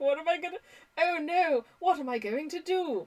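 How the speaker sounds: put-on fancy Cambridge academic accent. Imitating an acquaintance whose car brand stopped being made: fancy Cambridge accent. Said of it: "I'm using that accent because I'm pretty sure they were teaching at Cambridge".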